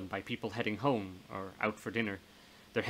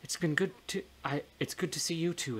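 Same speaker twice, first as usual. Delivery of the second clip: higher, tenderly voiced reunion; fond greeting; 6 semitones higher than usual. Ghost tells her old friend it's good meeting, fond greeting. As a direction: greet an old friend fondly, pitch lifted.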